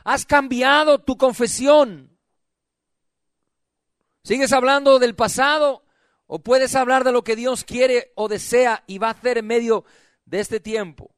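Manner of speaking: full-voiced, probing preacher as God; insistent challenge. God asking church whether it has changed, insistent challenge. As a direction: press each question on the listener.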